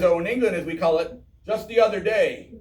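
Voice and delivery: a hint of royal teasing, lifting at the end; King Charles. British king joking about America's short history, lightly imitated. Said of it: "And he says".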